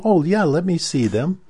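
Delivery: high, puzzled mock professor voice; lightly voiced, bewildered colleague; confused professor. Confused professor asking for the papers, high and puzzled. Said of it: "he was just very confused".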